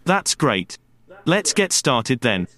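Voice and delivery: slow, clear teaching voice; kindergarten teacher voice. Shown as a demonstration. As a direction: talk slowly, like to small children. Demo lesson to podcast learners.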